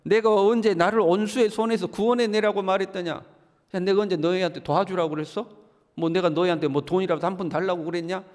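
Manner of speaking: loud, rising indignant outburst; angry rebuke. Acted. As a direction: throw the accusations back at them. Job rebukes his friends angrily.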